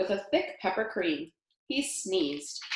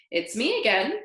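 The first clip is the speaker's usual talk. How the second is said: sloshing voice; 4 semitones higher, 3 dB louder than usual. Acted. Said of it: "voice was like two boots sloshing through mud".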